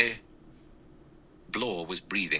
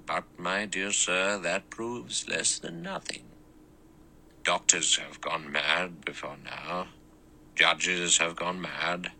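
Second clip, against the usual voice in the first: put-on thin precise old judge; quiet, measured and clear; small clear voice; 3 dB quieter than usual. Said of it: "in his small, clear voice".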